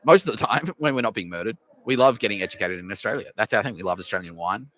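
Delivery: playing an outraged student, voice shooting up; mock Chinese student. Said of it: "they're like".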